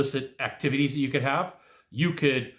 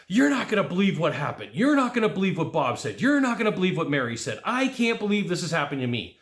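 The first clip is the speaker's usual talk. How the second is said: acted agitated phone rant, pitched up; worked-up venting; 4 semitones higher than usual. Caller telling one person after another what happened, worked-up venting. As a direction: vent like an exasperated caller, lightly hammed up.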